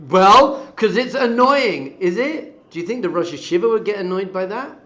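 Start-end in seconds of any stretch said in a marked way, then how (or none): 0.1-2.5 mock whine. Mocking annoyed reasoning.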